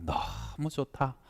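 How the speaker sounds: softly drawn-out savoring; hushed admiration. Retold or imitated. Blind hiker takes in the summit view, hushed admiration. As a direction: say it soft and slow, savoring it.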